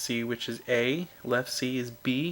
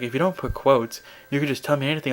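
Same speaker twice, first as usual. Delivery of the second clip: teacher scolding; 2 semitones higher, 7 dB louder than usual. Retold or imitated. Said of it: "And she'd be like".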